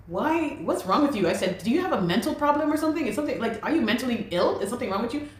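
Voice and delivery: high-pitched, fast indignant questioning; retold angry retort. Snapping back at the man cussing her out, high and fast. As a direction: fire back at him, pitch up and racing.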